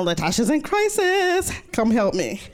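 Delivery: high frantic plea; mock panicked text, high; frantic message. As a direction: sound the alarm. Friend's frantic texts voiced.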